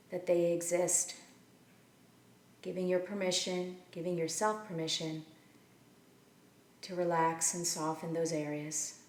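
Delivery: measured meditation guidance with long pauses between phrases; unhurried, leave room to breathe after each instruction; guided meditation. Acted. Teacher settling listeners into their seats and breath, guided meditation.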